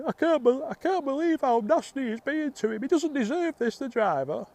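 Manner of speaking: very high-pitched imitation of an upset old woman; hammed-up distressed old lady voice; hysterical old lady. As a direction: wail it in a mock falsetto. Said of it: "hysterical, and she's going".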